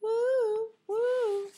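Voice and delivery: high, loud delighted whoop; excited woo. Real, not acted. Cheering her own fireplace, loud excited whoop. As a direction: cheer the fire like a fan.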